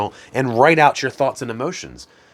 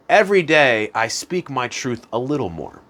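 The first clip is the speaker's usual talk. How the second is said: gentle affirmation; 3 semitones higher than usual. Shown as a demonstration. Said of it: "you could say".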